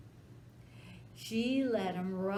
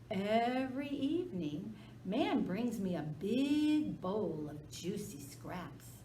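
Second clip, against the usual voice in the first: sly wheedling; 2 semitones higher than usual. Acted. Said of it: "that sly dog whined".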